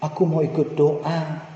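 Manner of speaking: put-on slow, drawn-out childish plea; pleading child. Father imitating his son pleading again to come pray, slow. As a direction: ask to come along like a begging toddler. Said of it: "Dia memelas lagi".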